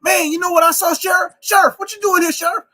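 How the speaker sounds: high, loud mock bayou Cajun accent; stereotyped Cajun accent. Comedian shows what people think New Orleans sounds like, exaggerated Cajun accent. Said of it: "people think New Orleans just talk like this".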